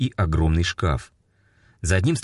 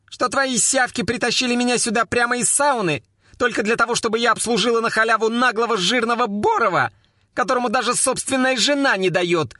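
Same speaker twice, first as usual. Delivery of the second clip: much higher, scornful ranting voice; ranting woman. A narrator's reading. Girl rants at the fat captain, scornful. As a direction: pour scorn on him.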